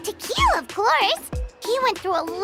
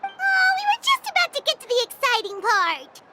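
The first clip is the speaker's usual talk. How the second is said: disappointed complaint; 5 semitones higher than usual. Acted. Play interrupted before exciting part.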